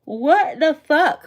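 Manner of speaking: startled slow cry; surprised outburst. Real, not acted. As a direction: blurt it out mid-yawn. Surprised by own yawn.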